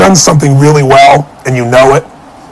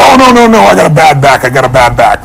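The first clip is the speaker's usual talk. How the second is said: exaggerated excuse. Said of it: "I was exaggerating how bad it was".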